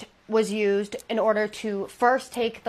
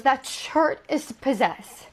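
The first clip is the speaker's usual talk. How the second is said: dread; 4 semitones higher, much slower than usual. Retold or imitated. Husband terrified of possessed shirt.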